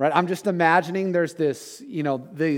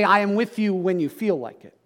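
higher, brighter take of the misquote; wrong version; 4 semitones higher than usual. Retold or imitated. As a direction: say it like the shallow promise he never made. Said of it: "he doesn't say".

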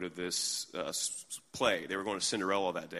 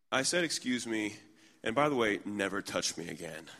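really calm. Retold or imitated. Second woman answering the stranger's scolding, really calmly. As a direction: keep the warning calm and even. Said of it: "really calmly".

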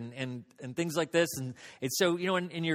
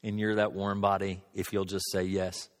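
voice of God; 7 semitones lower than usual. Retold or imitated. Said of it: "it was like God was saying".

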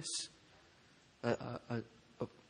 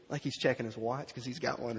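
ordinary talk, nothing marked

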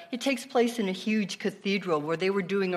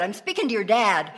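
laughing punchline; 4 semitones higher, 4 dB louder than usual. Retold or imitated. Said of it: "she said".

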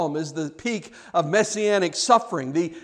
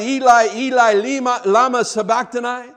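cried out; 4 semitones higher, 4 dB louder than usual. Acted. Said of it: "his innermost being he cried".

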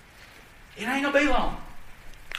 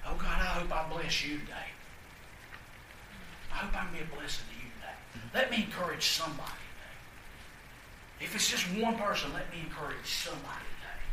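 quiet prayer; 4 semitones lower, 10 dB quieter than usual. Pretend. A churchgoer praying before service, soft and humble. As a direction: pray it softly to yourself.

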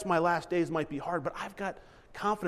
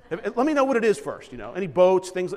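mock greedy; 7 dB louder than usual. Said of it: "No, I'm just kidding".

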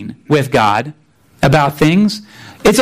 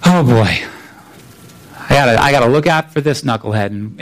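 lightly voiced grumbling soldier, lower and quick; a hint of a fed-up guard rushing his complaint; bored soldier; 3 semitones lower than usual. Soldier chained to Paul on his shift, a hint of bored griping. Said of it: "and he's going".

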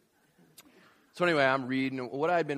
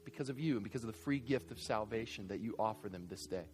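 closing prayer; 2 semitones lower than usual. Acted. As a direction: pray earnestly over the church.

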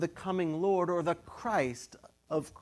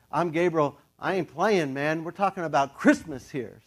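1 tough angel; 5 dB louder than usual. Retold or imitated. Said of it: "The angel's like".

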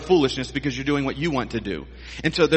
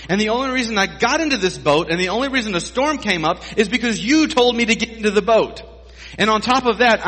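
exasperated complaint; 4 semitones higher than usual. Acted. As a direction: complain to Jesus like a fed-up, drenched rower. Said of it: "And so you're Peter".

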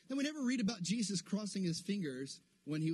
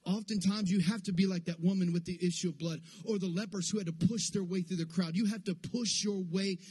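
driving, insistent preacher rhythm; full-force preaching; 2 semitones higher than usual. Real, not acted. Preacher urging church to push into God, full-force preaching. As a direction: build momentum phrase on phrase, urging the church onward.

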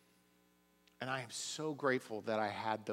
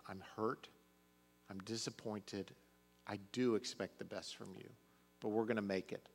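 tender reassurance; 4 dB quieter than usual. Retold or imitated. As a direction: reassure a broken son gently. Father retells his words to son.

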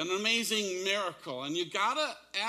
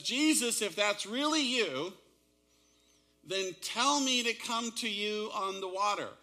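a raised, pleading call across the water; crying out; 5 semitones higher, 3 dB louder than usual. Retold or imitated. Peter calls out to Jesus from the boat, raised and pleading. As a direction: call out boldly to someone far off. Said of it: "he cries out and yells and says".

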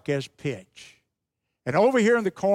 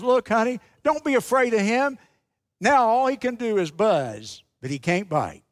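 lightly voiced reassuring mother, higher then dropping; comforting mother; 4 semitones higher than usual. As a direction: gently talk a hurt child out of fear, lightly acted. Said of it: "as she comforts him".

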